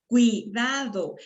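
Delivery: cuidado slow, with ui glided together; diphthong in one syllable. Shown as a demonstration. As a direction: stretch cuidado, keeping ui in one beat. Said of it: "porque estoy pronunciando dos vocales". (cuidado lento, con ui en una sola sílaba)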